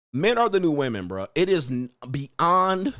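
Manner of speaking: usual speaking voice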